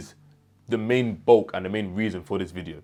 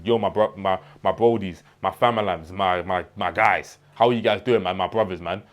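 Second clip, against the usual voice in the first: a touch of London slang, a bit louder; slang greeting; 3 dB louder than usual. Shown as a demonstration. Vlogger showing how not to greet viewers, casual slang. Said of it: "So imagine I am just like this".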